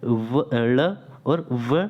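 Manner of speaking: letters spelt out very slowly; slow teacher's demo of the letters. Shown as a demonstration. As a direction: stretch each letter out for the class. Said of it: "इसके अंतर्गत हम पढ़ते हैं".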